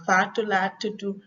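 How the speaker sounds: Senegalese Wolof name reply, "tudu" with final u; Senegalese accent. Shown as a demonstration. Teacher giving her name as an example, Senegalese accent. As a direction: end "tudu" on "oo", Senegalese style. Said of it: "Senegalese accent and Gambian accent".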